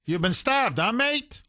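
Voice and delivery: sneering disbelief, pitch jumping up on mate; mocking cop. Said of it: "he says".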